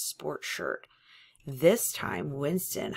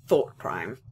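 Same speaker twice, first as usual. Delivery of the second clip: almost blubbering; 8 semitones lower, 6 dB louder than usual. Acted. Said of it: "almost blubbering".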